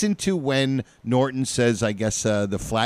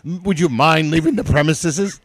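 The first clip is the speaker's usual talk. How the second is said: lightly mimicked regal Ralph; a touch of grand Ralph voice; imitating Ralph; 4 semitones higher than usual. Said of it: "He says, like".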